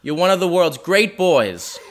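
slow, proud, lightly voiced Boston mom; a touch of a gushing mother, drawn out; mom impression. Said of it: "That's a quote".

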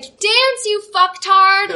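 high, sharp mock snap; snapping order. Cheerleader ordering the mascot to dance, high mock snap. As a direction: bark it at him impatiently. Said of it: "this girl's just like".

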